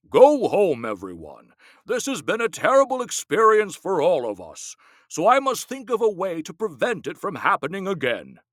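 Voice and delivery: a hint of a weary elder; lightly voiced rabbi. A narrator's reading. Rabbi dismissing the townspeople, lightly voiced weary elder. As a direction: send them home gently.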